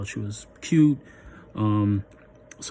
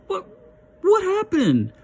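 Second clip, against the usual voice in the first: high, loud laugh-through question; can't keep a straight face; laughing disbelief; 4 dB louder, slower than usual. Real, not acted. Asking his crying date again, laughing.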